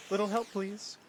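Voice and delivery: high-pitched put-on call for help; killer character voice. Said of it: "voices for the killers".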